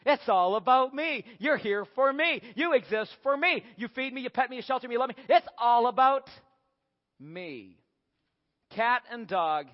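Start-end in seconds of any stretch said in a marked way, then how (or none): 0.0-6.3 high, emphatic self-importance; self-centred cat. Acted. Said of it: "cats say almost the very same thing". 7.2-7.8 pause, then low, soft self-satisfaction; smug cat. Acted. Cat's self-important punchline.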